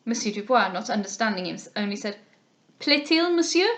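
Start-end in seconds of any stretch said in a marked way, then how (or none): 2.8-3.7 higher, rising, bewildered question; puzzled Frenchman. A narrator's reading. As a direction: ask politely without understanding. Dubois puzzled, not understanding.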